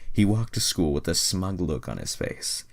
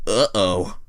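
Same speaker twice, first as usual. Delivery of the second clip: uh-oh; 3 semitones higher, 7 dB louder than usual. Acted. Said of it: "he thought to himself".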